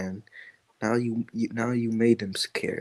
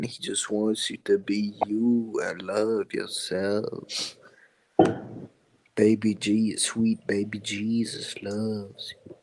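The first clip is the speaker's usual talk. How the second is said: slow, soft mock preacher; lightly voiced sweet evangelist, drawn out; joking evangelist; 6 dB quieter, slower than usual. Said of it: "a joking Evangelifish impression".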